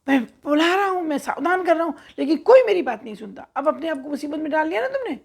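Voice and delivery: an irritated crow telling off the pigeons; angry scolding. Acted. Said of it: "और गुस्से में देखने लगा उनको". (कौवा कबूतरों को डांटते हुए, ऊँची और तेज़ आवाज़ में गुस्सा)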